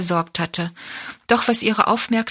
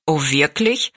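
mildly surprised, in a lower woman's voice; low-pitched, understated astonishment; astonished; 4 semitones lower than usual. A narrator's reading. Woman hearing of Rosalie's matching picture, astonished. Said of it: "sagte die Frau erstaunt".

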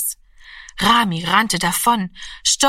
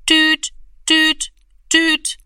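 high, louder beeping tone; dial tone beeps; 9 semitones higher, 4 dB louder, much slower than usual. A narrator's reading. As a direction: imitate the phone's dial tone. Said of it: "machte es". (hoher Telefon-Piepton)

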